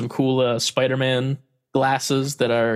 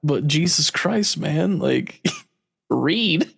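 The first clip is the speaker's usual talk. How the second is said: amused exasperation; 4 semitones higher than usual. Retold or imitated. Exasperated plea to mom.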